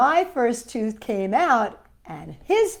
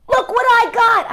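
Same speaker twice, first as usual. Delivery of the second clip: a hint of a yell, higher and louder; excited yell; 9 semitones higher, 5 dB louder than usual. Child showing his new dollar, mild happy shout. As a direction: call it out happily. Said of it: "I yelled with a whoop".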